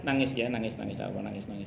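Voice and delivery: understated, soothing murmur; retold consoling. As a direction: softly give a mourner permission to cry. Retells consoling a grieving friend.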